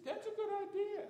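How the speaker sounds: high, laughing little agreement; laughing reply. Retold or imitated. Retelling his answer to the man, laughing. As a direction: chuckle it out, pleased with the idea.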